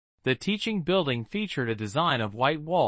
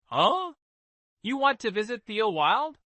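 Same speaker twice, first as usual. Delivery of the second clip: surprised; 8 semitones higher than usual. Acted. Father surprised by daughter's request.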